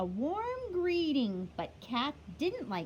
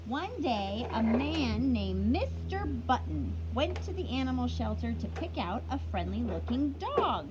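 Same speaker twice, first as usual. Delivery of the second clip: storybook reading. A narrator's reading. Teacher reading a picture book to kids, lively storytelling. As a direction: read it like story time for little ones.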